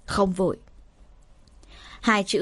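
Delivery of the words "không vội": casual offhand shrug of "Không vội"; "Không vội" tossed off lightly, in no hurry; light, unhurried. A narrator's reading. Shaman answers the desperate family lightly, unhurried. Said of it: "câu nói nhẹ tênh của thầy chứ".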